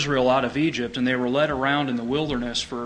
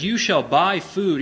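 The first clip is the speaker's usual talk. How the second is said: slow, a touch louder, "You" pushed; proclaiming God's words; 5 semitones higher, 4 dB louder, slower than usual. Retold or imitated. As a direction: declare it slowly like a decree. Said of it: "He says".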